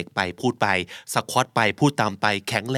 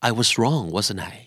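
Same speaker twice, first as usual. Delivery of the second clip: wasn't I dropped low and much softer; falling question tag; 4 semitones lower, 3 dB quieter, much slower than usual. Shown as a demonstration. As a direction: let the tag sink away. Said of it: "การเน้นเสียง".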